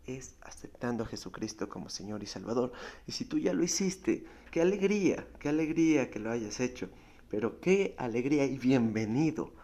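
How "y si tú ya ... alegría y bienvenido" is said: higher, louder cry of joy; joyful. Real, not acted. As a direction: burst out in delight for the new believer. Preacher rejoicing. (alegría exclamada)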